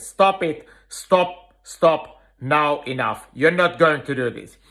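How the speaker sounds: firm, steady stop command without anger; mean it calmly, no temper; serious, not angry. Shown as a demonstration. Trainer firmly stopping a dog stealing food, serious not angry. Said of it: "I'm not angry, but I'm serious".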